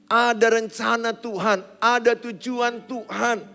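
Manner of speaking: loud, driving sermon voice; fiery preaching. Acted. Preacher urging the congregation to come to God, loud and fervent. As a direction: preach it out to the whole church. Preaching builds to full force.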